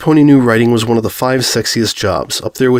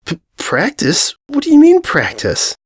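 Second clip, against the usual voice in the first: stammered start, then a sharp high squeak on mean; shocked, stammering repeat of practice; stunned disbelief; 10 semitones higher, slower than usual. Acted. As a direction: thrown completely off balance, voice cracking upward. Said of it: "brain made a screeching noise".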